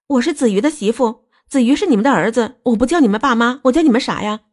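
high-pitched, upset insistence; aggrieved protest. Acted. Daughter-in-law protesting to disowning parents-in-law, aggrieved.

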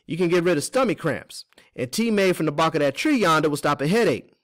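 high, loud voice of a herb-wise woman; folksy Teeny voice. Acted.

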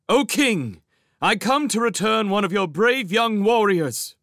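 high, ringing proclamation; loud, courtly shout. A narrator's reading. Captive mouse addresses the sparrow king, shouting in courtly manner. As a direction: hail the king at full voice, formally. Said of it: "shouted out in a loud, courtly manner".

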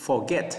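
forget, with GET stressed; stress on second syllable. Shown as a demonstration. Teacher repeats forget for students, stress on GET. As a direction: put the weight of forget on get. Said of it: "lên giọng ở cái âm hai nè".

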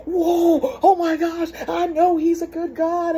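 high, loud amazed cheer; thrilled, high-pitched exclamation; excited rejoicing. Acted. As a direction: rejoice along with an awed whoop. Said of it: "what I'm expecting that person to say".

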